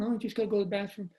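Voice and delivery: quick, soft mumbled dad voice; lightly voiced drowsy father; sleepy dad. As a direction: mumble it fast like a half-asleep dad. Dad's excuse voiced at night.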